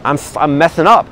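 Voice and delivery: mock-rant at yourself, half-hearted; frustrated self-talk. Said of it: "they get really frustrated".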